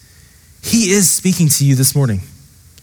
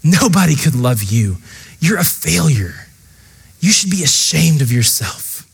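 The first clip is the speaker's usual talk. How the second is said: accusing inner voice; 3 semitones lower than usual. Retold or imitated. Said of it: "the voice of condemnation whispering in your ear".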